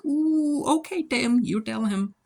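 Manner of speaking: high, thrilled ooh; cheering him on. Retold or imitated. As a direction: hype up a friend who just spoke out. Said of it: "And I'm like".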